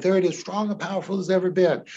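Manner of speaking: quick and lifted; excited. Shown as a demonstration. Hypnotist peaking the client's emotion, fast and lifted. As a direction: hit the peak with energy. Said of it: "So I reflect that in my voice".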